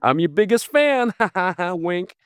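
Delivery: high, mock-menacing obsessed fan with a laugh; creepy Misery quote. Mocking his own words to Stephen King as the Misery fan, high and creepy. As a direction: play it like the creepy nurse from Misery, tongue in cheek. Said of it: "it sounds like I'm quoting, like I'm going".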